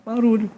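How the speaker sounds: barulho jumps high and lands falling; the word barulho sung out high for emphasis; stress on barulho. Real, not acted. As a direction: lift barulho way up, then drop it. Stressing worship without noise.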